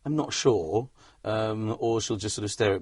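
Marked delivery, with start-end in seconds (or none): 0.1-0.9 slow, hesitant unconvinced wife; unimpressed wife. Retold or imitated. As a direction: drag it out, unsure and unimpressed. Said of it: "she'll either go".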